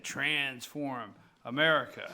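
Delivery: "Transform" carefully enunciated, leaning on "trans"; enunciated quote. Retold or imitated. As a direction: quote it with "Transform" pronounced deliberately. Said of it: "he enunciated".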